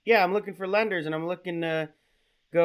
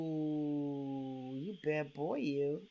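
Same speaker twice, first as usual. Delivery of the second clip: flirty; 3 semitones lower, 4 dB quieter than usual. Acted. Prank caller flirting with telemarketer.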